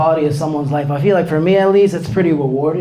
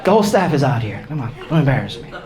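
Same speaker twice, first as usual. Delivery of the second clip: restaurant staff. Acted. Waiter birthday bit.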